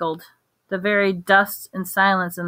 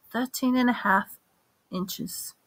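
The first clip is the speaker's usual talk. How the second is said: hushed; 5 semitones higher, 5 dB quieter than usual. A narrator's reading. Wandmaker naming the cursed wand, hushed and fading. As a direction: drop to a hush, higher on thirteen. Grave murmur after confession.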